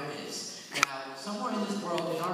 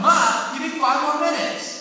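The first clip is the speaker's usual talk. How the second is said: put-on higher, louder, slow pleading kid's whine; whiny kid begging; 9 semitones higher, 10 dB louder than usual. Boy begs his mom for more playtime, slow high whine. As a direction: drag it out like a kid who won't come inside. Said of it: "I'm like".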